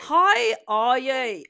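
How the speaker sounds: mock Australian accent greeting; a bad try at an Australian accent. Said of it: "doing an Australian accent".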